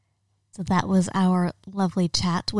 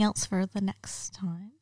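whispering; 8 dB quieter, slower than usual. Real, not acted. Whispered sign-off to co-host.

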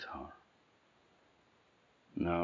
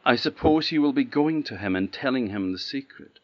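lofty, disdainful princess; loud and haughty, a princess scorning a servant; 3 semitones higher, 6 dB louder than usual. Acted. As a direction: look down your nose at the gardener. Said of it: "in a rather a haughty voice".

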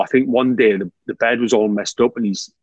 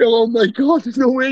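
mock disbelief; 11 semitones higher than usual. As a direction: act out amazed disbelief, laughing. Retold disbelief at gaffer.

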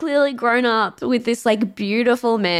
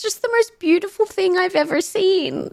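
higher, crying a little; teary, moved; 8 semitones higher than usual. Real, not acted. Moved to tears by the dad, crying while she talks. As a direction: voice breaking as she gushes. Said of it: "his voice is so shaky".

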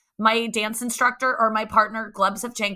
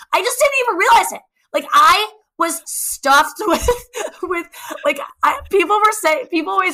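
giggly; 8 semitones higher, 6 dB louder than usual. Real, not acted. Laughing at her own story.

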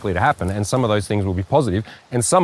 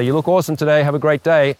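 upbeat compliment; 4 semitones higher than usual. Retold or imitated. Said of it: "and I say".

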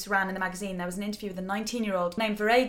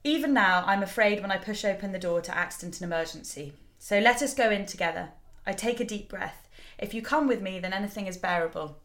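holding back tears. Real, not acted. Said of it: "I'm gonna try not to cry".

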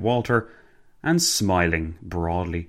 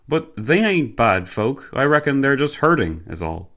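higher-pitched chatty driver voice; Cockney driver, easygoing; 6 semitones higher, 3 dB louder than usual. Acted. Driver softening talk of the locals to his passenger, easygoing.

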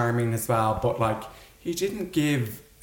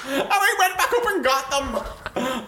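laughing through words; slower than usual. Real, not acted. Still laughing while telling.

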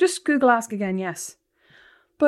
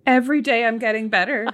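mocking repeat; 4 dB louder than usual. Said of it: "Every, are you twelve?".

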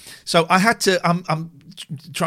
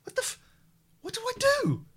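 mock panic; faster than usual. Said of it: "I'm sat there going".

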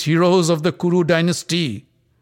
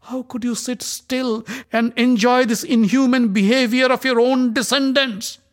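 much higher, louder furious accusation; raging; 10 semitones higher, 5 dB louder than usual. Acted. Draupadi rebukes the silent Kuru elders, raging. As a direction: shame the elders with fury. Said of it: "transformed into pure rage".

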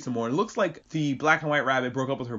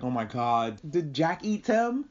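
mock horror; 3 semitones higher than usual. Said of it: "my brain started going in circles".

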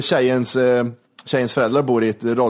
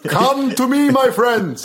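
mock cat lady call; 9 semitones higher, much slower than usual. Calling cats in mock voice.

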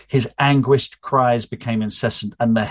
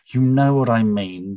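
mild snap. Acted. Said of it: "Charlotte snapped".

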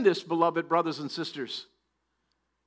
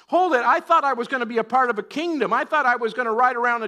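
higher, indignant disciple objecting; mock protest; 3 semitones higher, 4 dB louder, faster than usual. Preacher voices disciples who expected a kingdom, mock protest. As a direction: protest as a let-down follower.

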